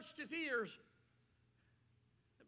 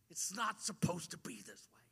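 unvoiced sorrowful whisper; 5 semitones lower than usual. Jesus grieving over the deaf man, whispering. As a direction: breathe it out as grief.

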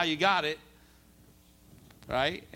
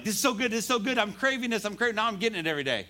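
eager enthusiasm; 5 semitones higher, faster than usual. Acted. Acting a new believer's enthusiasm.

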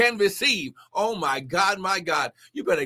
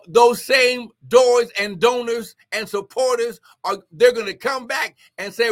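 prophetic preaching. Acted. Prophesies to Brother Kevin.

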